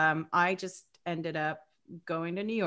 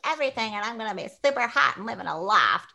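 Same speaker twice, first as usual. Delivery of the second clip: dreamy naive; 4 semitones higher, faster than usual. Retold or imitated. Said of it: "being like".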